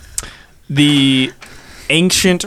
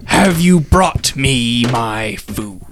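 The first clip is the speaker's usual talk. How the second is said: dragon voice; 3 semitones lower, much slower than usual. Acted. Dragon greets the corgis.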